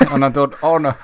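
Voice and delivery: a hint of a South African accent in a retold thought; lightly put-on South African accent, half-hearted. Recalling the elephant moment in a mild South African accent. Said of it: "struggling to maintain this, terrible, probably quite racist accent".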